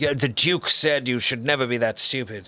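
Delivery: playful English RP; received pronunciation. Pretend. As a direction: answer in a put-on English accent. Playing along in English accent.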